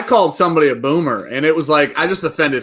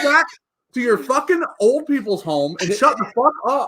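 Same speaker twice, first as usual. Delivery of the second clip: mock aggressive rant; 6 semitones higher than usual. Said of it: "That was terribly aggressive".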